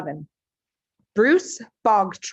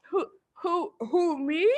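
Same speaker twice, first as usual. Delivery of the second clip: put-on much higher stammering boy; puzzled boy; 8 semitones higher than usual. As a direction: stammer in bewildered innocence. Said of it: "looking genuinely puzzled".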